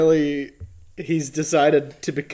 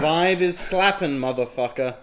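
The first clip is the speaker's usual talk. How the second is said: mock Brooklyn accent; 4 dB louder than usual. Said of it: "You feel uncomfortable listening to me do a version of it".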